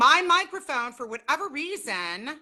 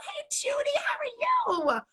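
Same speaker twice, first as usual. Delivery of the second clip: whisper; 13 semitones higher than usual. Real, not acted. Whispering hello to Judy on the live stream.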